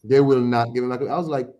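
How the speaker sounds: ordinary talk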